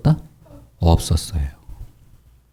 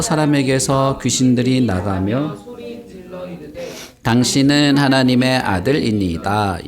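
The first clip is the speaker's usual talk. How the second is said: slow, measured group Bible reading; reciting scripture for all to follow. Acted. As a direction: read the verses aloud steadily, drawing out the phrases. Leads joint scripture reading.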